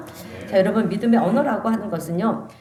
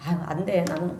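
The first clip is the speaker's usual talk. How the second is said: lightly acted defeatist grumble; mock discouragement; 2 semitones lower than usual. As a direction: sigh it out like someone giving up. Voices a defeatist's negative talk.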